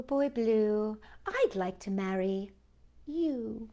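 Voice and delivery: gentle storytime read, dialogue voiced lightly; reading a poem to children. A narrator's reading.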